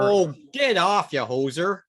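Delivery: high, loud playful protest; mock-indignant burst, pitched well up; mock outrage. Cohost ribs the host over listener praise, mock outrage. Mock bickering in Canadian slang.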